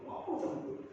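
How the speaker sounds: "Ngomong sama Tuhan" whispered, no voice. Shown as a demonstration. Preacher leans in to the congregation, whispering "Ngomong sama Tuhan". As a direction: breathe "Ngomong sama Tuhan" as a hushed secret. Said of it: "repeated as a whisper".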